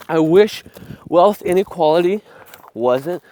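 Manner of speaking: winded, gasping between words; out of breath. Real, not acted. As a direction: talk while catching your breath. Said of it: "oh God, I'm out of breath".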